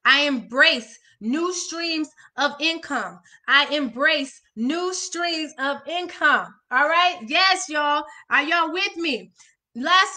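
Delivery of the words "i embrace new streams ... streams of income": slow, deliberate reading of each word; slow affirmation. Shown as a demonstration. Coach reading an affirmation to viewers, slow and deliberate. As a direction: let every word land slowly. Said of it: "we're almost out of here".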